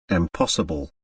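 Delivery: low, soft astonished mutter. A narrator's reading. Doctor reading the letter, low stunned mutter. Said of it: "he muttered".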